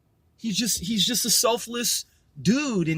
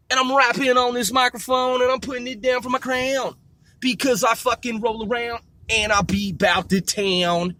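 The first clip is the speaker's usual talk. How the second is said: put-on country-accented a cappella rap. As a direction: rap it like a small-town country boy. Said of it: "back in my country voice".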